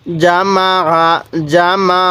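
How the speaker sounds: জামা with a firm j and a pressed throat ain at the end; firm jeem, pressed ain. Shown as a demonstration. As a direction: say জামা, squeezing the final 'a' from the throat. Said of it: "আইনটা একটু চাপ দিয়ে পড়ব". (জামা: জিম শক্ত, আইন একটু চাপ দিয়ে)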